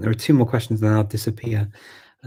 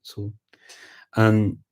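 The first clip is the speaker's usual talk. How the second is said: chatty Scottish accent with rolled Rs. Shown as a demonstration. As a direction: explain it as a Scot would, lightly trilling the Rs. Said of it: "if you speak with, like, with a Scottish accent".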